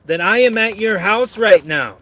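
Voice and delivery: high, deliberate mock threat; Dandy. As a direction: read it out as a theatrical menace. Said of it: "says Dandy to Kevin".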